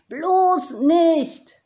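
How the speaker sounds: loud, high cry of refusal; yelling. A narrator's reading. Tiziana refuses to keep the finds, yelling. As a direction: shriek it in horrified refusal. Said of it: "schrie Tiziana weiter".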